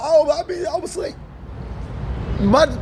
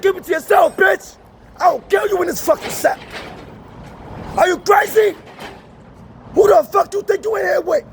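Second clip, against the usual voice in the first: mock angry threat; 6 semitones higher than usual. Threatening cellmate in retold quote.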